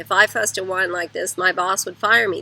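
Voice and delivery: imitating a sarcastic parent to a child. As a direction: sneer it like a fed-up parent. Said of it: "number one is sarcasm".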